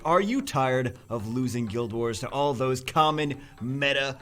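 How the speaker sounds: loud, upbeat announcer pitch over music; infomercial voice. Pretend. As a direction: sell it like a TV ad. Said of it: "I get in the announcer voice".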